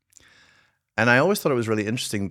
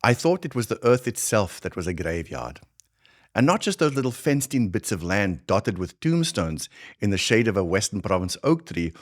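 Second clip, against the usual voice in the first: put-on thick Afrikaans South African accent; heavy South African accent. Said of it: "So I'm gonna channel a much heavier South African accent".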